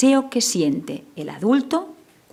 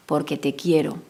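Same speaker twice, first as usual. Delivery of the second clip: tender reassurance; 4 semitones lower than usual. Shown as a demonstration. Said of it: "no puede perder nunca la transmisión de amor".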